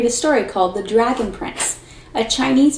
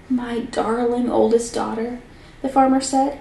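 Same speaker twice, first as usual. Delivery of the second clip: lively read-aloud storyteller voice; story narration. A narrator's reading. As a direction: tell the fairy tale to a class, expressively. Teacher reads story aloud.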